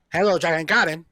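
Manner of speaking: imitated Asian-accented phone greeting; lightly put-on Asian accent; mock Asian accent. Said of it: "So people would do".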